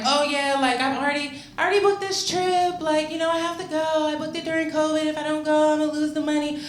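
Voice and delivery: high, breezy white lady voice; white mom voice. Retold or imitated. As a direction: put on a chirpy white mom's voice. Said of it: "I'm talking like this 'cause she's white".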